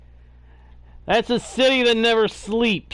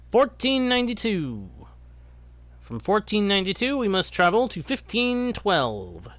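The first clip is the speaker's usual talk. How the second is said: announcer. Pretend. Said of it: "I do sound a little bit like some kind of an announcer right now".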